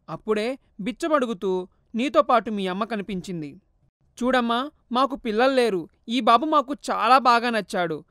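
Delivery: a lightly voiced firm father explaining; father recounting the adoption, earnest; understated fatherly firmness; stern father. Father tells and quotes.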